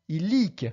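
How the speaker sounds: "illic" stressed on its last syllable, -LIC; final-syllable stress. Shown as a demonstration. Teacher giving a rare Latin example, "illic" stressed at the end. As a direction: lean on the second syllable of "illic". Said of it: "sur la première syllabe en partant de la fin".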